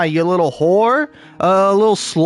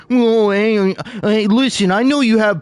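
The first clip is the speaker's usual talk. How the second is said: mock TikTok plea; 4 semitones higher than usual. TikTok voiced begging for notifications.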